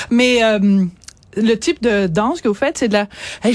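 out of breath after dancing; winded, catching her breath; gasping for air. Real, not acted. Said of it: "je suis essoufflée".

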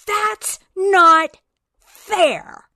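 high, loud protest from the back; retold shout. Student in the back of the room shouting at the professor, loud protest. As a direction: yell it like an outraged student. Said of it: "shouted out".

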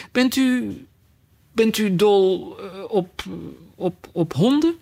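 high, halting, groping for words; tentative, stammered question; hesitant question. Acted. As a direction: feel your way nervously to a new subject. Alice gropes for new subject.

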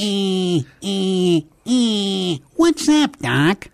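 high, cocky cartoon rabbit; Bugs Bunny. Shown as a demonstration. Demonstrating a cartoon rabbit for the host, high wisecracking voice. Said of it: "of course, Bugs Bunny is".

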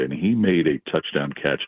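normal talking voice

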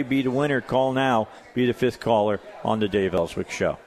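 upbeat radio promo read; monster truck ad. Acted. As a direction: pitch the giveaway like a race ad. Host reads ticket giveaway promo.

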